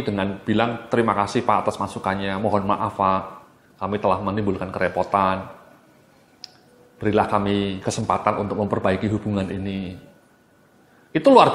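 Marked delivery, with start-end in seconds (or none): 0.9-10.0 soft, sincere apology to a customer; calm and sorry, easing the anger; empathetic apology. Shown as a demonstration. Trainer showing staff an empathetic reply, softly sincere. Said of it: "dengan penuh empati".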